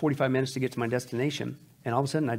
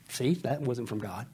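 soft, slow, chuckling through it; laughing joke; 2 semitones lower, 6 dB quieter, slower than usual. Real, not acted. Pastor joking to the congregation, chuckling softly. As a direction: laugh at his own doubt. Joking after she cries.

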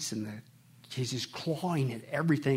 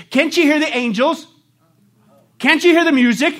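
rapturous asking; 11 semitones higher, 14 dB louder than usual. Retold or imitated. Dying woman asks visitors.

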